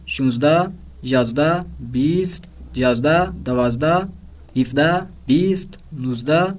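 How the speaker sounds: mixed Persian numbers read one by one with rising list tune; slow, clear dictation of numbers; listening drill numbers. Shown as a demonstration. Teacher dictating numbers for students to circle, clear. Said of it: "یہیں پر تکرار کر لیتے ہیں خود ہی".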